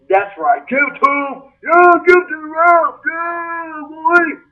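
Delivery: imitated cheering crowd.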